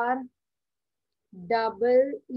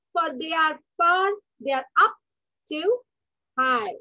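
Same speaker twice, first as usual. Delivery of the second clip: poem recitation. Acted. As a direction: recite each phrase with pauses. Teacher recites poem to class.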